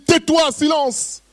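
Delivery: slow, high mock scolding from the crowd; crowd hushing. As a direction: hush him like an annoyed crowd, drawn out. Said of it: "Les gens lui disent".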